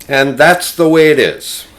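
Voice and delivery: a light take on Cronkite's sign-off; Walter Cronkite sign-off. Retold or imitated. Cronkite closing the broadcast, mild anchorman tone. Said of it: "he'd say".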